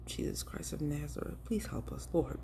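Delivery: soft, whispered plea to the Lord; quiet earnest prayer; hushed prayer. Real, not acted. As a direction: pray under your breath for help.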